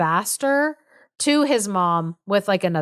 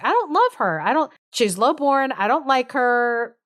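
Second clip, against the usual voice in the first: tag; 5 semitones higher than usual. Retold or imitated. Bertram whining back at the king.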